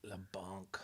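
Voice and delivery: breathy whispered echo. Real, not acted. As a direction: whisper it back. Whispered echo of French word.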